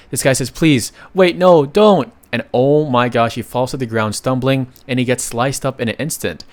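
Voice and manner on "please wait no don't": frantic pleading cry, pitch and volume climbing on each word; desperate plea. Acted. Man begging his attacker not to strike, panicked cry. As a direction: beg for your life as the blade comes. Victim begging before being cut down.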